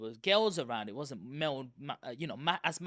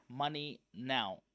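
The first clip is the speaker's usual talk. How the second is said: slow, low bully voice; bully demand; 4 semitones lower, 3 dB quieter, much slower than usual. Retold or imitated. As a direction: drag out the demand like a school thug. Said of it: "they would come straight up to you".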